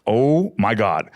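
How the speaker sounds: slow, drawn-out retold amazement; stretched mock astonishment; amazed reaction. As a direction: imitate someone stunned, stretching the words out. Retelling the sister's stunned reaction.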